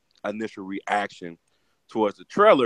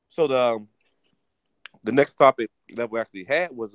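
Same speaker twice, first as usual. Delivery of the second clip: mouth full; 4 dB louder than usual. Real, not acted. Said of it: "I got food in my mouth".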